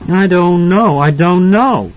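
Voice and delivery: put-on high, insistent child's voice; scared little boy. A narrator's reading. Flinching son answers his father, scared little boy. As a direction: plead ignorance in a high boy's voice.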